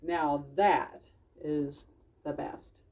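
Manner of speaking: slow, tender fox voice; gentle Dawn. Acted. Dawn summing up the lesson for friends. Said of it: "Dawn said".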